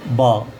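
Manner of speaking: बा as a lone open "baa"; बा set apart, vowel opened to AA. Shown as a demonstration. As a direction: say बा with a long AA, no O. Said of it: "यहाँ पर हम पढ़ेंगे".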